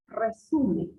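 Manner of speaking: "Resumen" with the stress on SU; "Resumen", leaning on the middle syllable SU. Shown as a demonstration. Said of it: "Es en la su".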